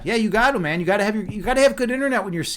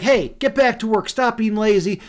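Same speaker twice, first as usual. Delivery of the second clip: higher, mildly raised boss's yell; mock yelling; 4 semitones higher, 4 dB louder than usual. Dragon storyteller imitating a boss yelling at his employees, mock yelling. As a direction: imitate a boss barking orders. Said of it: "he's yelling at his employees".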